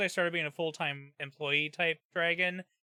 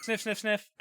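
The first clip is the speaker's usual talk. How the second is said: higher playful sniffs; sniffing the air; 6 semitones higher than usual. Pretend. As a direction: sniff three times like a pet. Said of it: "stinky cat check".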